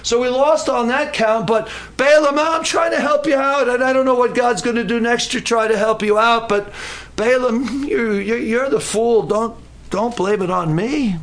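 lightly acted donkey, protesting blame; pleading donkey. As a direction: reason urgently with a stubborn master. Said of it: "And the donkey says".

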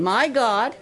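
preacher repeats the verse aloud for the campers; scripture reading. Shown as a demonstration. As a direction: proclaim it clearly for them to repeat. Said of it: "I'll say it again".

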